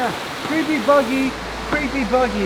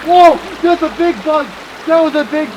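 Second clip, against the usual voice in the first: startled yell; 5 semitones higher, 4 dB louder than usual. Real, not acted. Big bug flies past.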